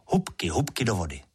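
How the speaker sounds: ordinary delivery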